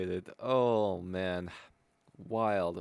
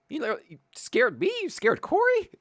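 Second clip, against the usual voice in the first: giggly after the scare; 5 dB louder than usual. Real, not acted. Recovering from the scare.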